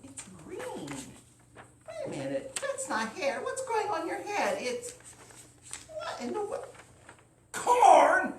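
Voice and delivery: high, rising alarm; growing shock. Acted. Wife and farmer finding corn, high alarm. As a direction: build to a loud cry of disbelief.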